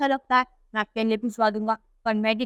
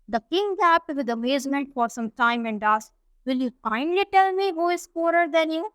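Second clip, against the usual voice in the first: reads the English text slowly and carefully; unhurried storybook reading; slow story reading; much slower than usual. A narrator's reading. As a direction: read it out word by word for the class. Slow English read-aloud of story.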